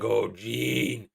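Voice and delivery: hammed-up lovesick pining, drawn-out words; Wolverine meme, pining. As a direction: moan the beloved's name in mock longing. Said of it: "famous meme of Wolverine sitting there holding Jean Grey's picture, like".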